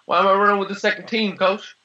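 high, fast, imitated tearful whine; hammed-up teary complaint to the coach; mock crying plea. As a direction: play a player begging his coach, half-crying. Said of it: "he's, like, in tears".

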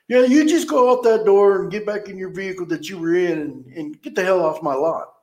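loud, high, scornful tirade at the customers; mock angry manager. Manager telling customers to get off his lot, scornful yell. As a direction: rant at them like the rude boss.

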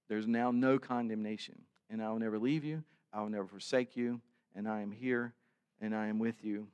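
calm divine comfort; tender assurance. Acted. God promising never to leave.

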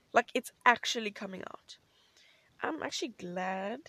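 breathless whispered thrill; excited whisper. Real, not acted. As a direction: whisper it like a secret. Whispered excitement about the movie.

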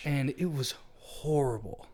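hushed, slow whisper. Real, not acted. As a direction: breathe it out, barely voiced. Grim recollection whispered.

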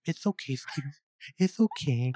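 soothing "It's okay, sweetie" with lisped s sounds; Julianne Moore's lisp. Retold or imitated. Mimicking her comforting him with "It's okay, sweetie", lisped. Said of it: "Like, with her lisp".

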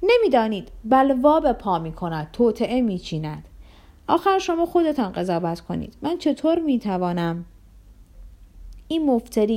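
mock-indignant shouting. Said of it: "فریاد زد".

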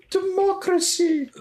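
high, slow, drawn-out proclamation; dramatic movie quote. Retold or imitated. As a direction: stretch it out like a grand villain. Quoting a Star Wars line.

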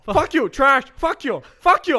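high, loud trash-talk voice; gamer troll voice. Pretend. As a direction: yell like a raging kid. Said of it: "What accent is this?".

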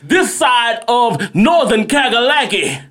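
showman announcer presenting the show; ringmaster. Acted. Podcast intro announcing.

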